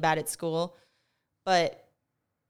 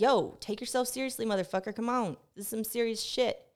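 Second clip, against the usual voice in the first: higher-pitched, playful telling-off; mock scolding; 4 semitones higher than usual. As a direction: pretend to urge someone to get serious. Imagined scolding of the author.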